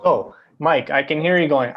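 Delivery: usual speaking voice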